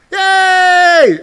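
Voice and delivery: high, loud sarcastic yay; a loud, high cheer meant as a joke; mock cheer. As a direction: cheer it like a fan, mocking. Mock cheering bad news.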